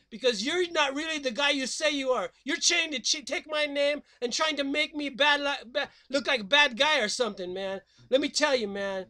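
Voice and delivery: fast laid-back surfer voice; surfer dude. Acted. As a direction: talk like a Huntington Beach dude.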